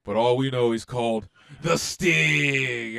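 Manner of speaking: slow dramatic mock announcer voice; Top Gear announcer. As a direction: ham up a slow, portentous TV intro. Top Gear Stig intro parody.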